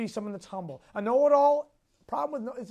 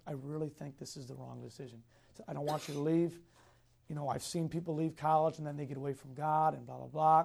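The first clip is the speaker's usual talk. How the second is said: mock tearful plea; 6 semitones lower, 4 dB quieter than usual. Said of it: "he almost started crying".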